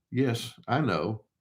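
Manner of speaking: slow, soft, even acknowledgment; calm and unbothered. Shown as a demonstration. Answering a narcissist who won't listen, slow and soft and calm. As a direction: let it roll off you, no fight in it. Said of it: "notice my tone of voice".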